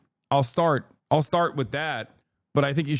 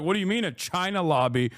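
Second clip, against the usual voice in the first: mock straight-faced American; 5 semitones higher than usual. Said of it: "with a fucking straight face and be like".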